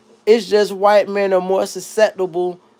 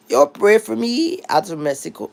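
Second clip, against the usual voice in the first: attempted Mexican accent; 3 semitones higher than usual. Shown as a demonstration. Reading a viewer's comment in a failed Mexican accent. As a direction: have a clumsy go at a Mexican accent. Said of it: "I can't do a Mexican accent".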